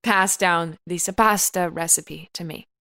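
hammed-up sentimental storytelling; mock emotional. Host shares family recipe backstory, mock-sentimental. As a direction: tell it with tender, weighted pauses. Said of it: "I'm getting emotional".

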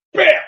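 loud, explosive "bam"; sudden shouted impact noise; imitated bat crack. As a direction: punch it out like a bat hitting the ball.

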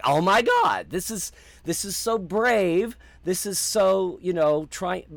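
high, slow, awed gushing over the news; thrilled gushing. Retold or imitated. Fan hearing a prequel rumor, slow thrilled gushing. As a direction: gush like the show is a dream come true. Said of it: "I was like".

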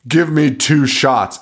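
slow, deliberate demand for drinks; hammed-up bar demand; mock bar order. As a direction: order it like a cocky drunk, drawn out. Acting drunk Ash ordering shots.

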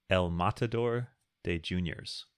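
slow, lightly put-on gringo Spanish accent. Shown as a demonstration. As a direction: announce it in an American's attempt at a Spanish accent. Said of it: "That's my gringo Spanish accent".

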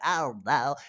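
put-on old lady voice. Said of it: "my old lady voice that I do on stage".

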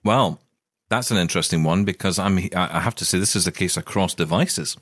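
eating while talking; talking through a biscuit; mouth full. Real, not acted. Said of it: "Sorry, I'm eating something at the same time".

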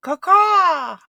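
high, loud crow caw; chirping bird person. Pretend. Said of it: "the nefarious night flyer herself".

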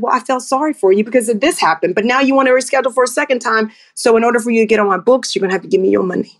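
brisk and matter-of-fact, no apology; firm, no-nonsense. Retold or imitated. To a client rescheduling again, firm and brisk. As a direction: lay down the rule quickly and flatly. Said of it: "Like that".

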